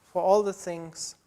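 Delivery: earnest, steady prayer voice; a gently lifted prayer of thanks; closing prayer. Acted. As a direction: thank God sincerely for the congregation.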